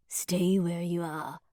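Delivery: slow, cold command; armed intruder ordering them to freeze; grating stranger. Acted. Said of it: "the grating voice says".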